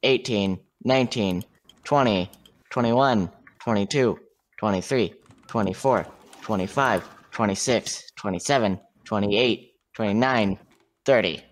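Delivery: counting seconds. Real, not acted. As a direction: count down the head start steadily. Counting the head start aloud.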